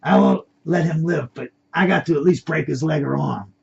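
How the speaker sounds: angry comeback, loudest at the start; blaring back. Acted. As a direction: argue back loudly and indignantly. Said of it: "The Spanish accent man blaring back".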